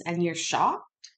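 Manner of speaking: slow, drawn-out "shocked" with a scornful rise; slow sarcasm. Real, not acted. Commentator needling the witness, slow drawn-out sarcastic rise. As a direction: stretch out "shocked" slowly, needling him with the rising end.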